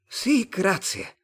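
high, very slow alien voice; stretched-out Martian thanks. A narrator's reading. Martian character accepts.

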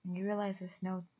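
softly paced, soothing meditation voice; guided meditation. Real, not acted. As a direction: guide listeners gently inward, leaving long pauses.

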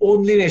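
"Online" voiced as on-li-ne; read as spelled. Shown as a demonstration. Speaker explaining how Turks write it, "Online" as on-li-ne. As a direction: sound out "Online" with Turkish vowels, on-LEE-neh. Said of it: "şeklinde yazıyoruz".

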